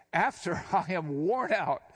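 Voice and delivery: a laugh breaks into Sarah's words; laughing while reading. Acted. Preacher reading Sarah's disbelief to the congregation, laughing. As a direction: chuckle through the opening of the line.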